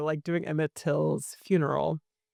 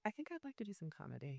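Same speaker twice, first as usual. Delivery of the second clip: much softer, dry aside; deadpan aside; 18 dB quieter than usual. Retold or imitated. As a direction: say it as a tired joke. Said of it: "I was like".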